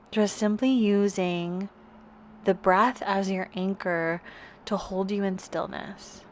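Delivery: calm, unhurried yoga teacher guidance; guided yoga meditation. Real, not acted. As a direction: guide them gently into rest, with long pauses between phrases. Leads a restorative yoga meditation.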